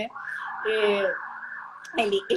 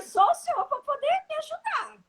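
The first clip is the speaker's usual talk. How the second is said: high pleading. Retold or imitated. Jerônimo pleading to the healer.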